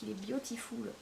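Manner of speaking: "beautiful" said softly in a French accent, as /bjotiful/; French-accented "beautiful", the "tiful" said the French way; French accent English. Real, not acted. Vlogger showing polish to viewers, softly in a French accent. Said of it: "Ouais, ouais, mon accent".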